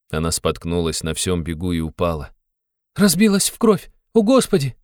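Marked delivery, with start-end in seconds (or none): 2.9-4.8 high, loud cry of alarm; Sonya cries out. A narrator's reading. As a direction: gasp it out in horror. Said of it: "вскрикнула Соня". (высокий испуганный вскрик)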